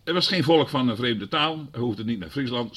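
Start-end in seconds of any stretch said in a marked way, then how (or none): none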